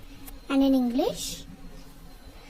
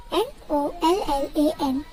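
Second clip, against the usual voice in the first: letter-by-letter spelling with pauses; spelled out. Shown as a demonstration. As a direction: spell it out, each letter separate. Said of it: "how to pronounce it in Korean".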